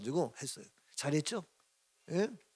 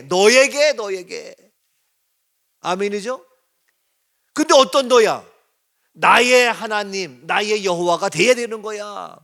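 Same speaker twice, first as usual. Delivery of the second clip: loud, slow, rising sermon cadence; impassioned pastor calling to the church; full-force preaching; 4 semitones higher, 10 dB louder, slower than usual. Acted. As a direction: preach it out to the congregation, drawn out.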